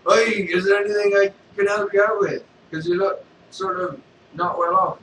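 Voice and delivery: loud mock-friendly Vader; Darth Vader. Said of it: "And he was like".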